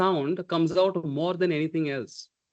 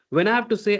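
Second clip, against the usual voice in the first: ordinary talk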